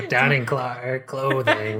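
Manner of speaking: slow, laughing repeat of the slip; mock the misread while laughing; laughing imitation. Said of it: "Exactly, see?".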